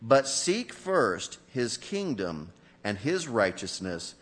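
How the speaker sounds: measured, solemn Bible reading to the congregation; scripture reading. Acted. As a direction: read the passage aloud with weight and care.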